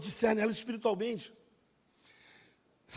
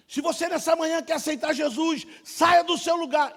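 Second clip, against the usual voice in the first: altar call; 7 semitones higher, 9 dB louder than usual. Retold or imitated. Pastor making the altar call.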